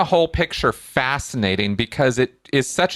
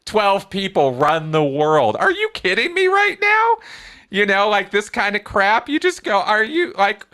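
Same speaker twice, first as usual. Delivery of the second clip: voice gets high; 9 semitones higher than usual. Real, not acted. Ranting to the guest about conspiracy theorists, getting higher. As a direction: pitch climbing higher with exasperation. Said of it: "my voice gets high".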